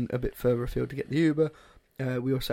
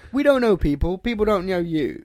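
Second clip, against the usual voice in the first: firm, raised-voice retold scolding; higher, emphatic reproach; retold telling-off; 5 semitones higher, 4 dB louder than usual. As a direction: set a friend straight. Retells scolding his friend.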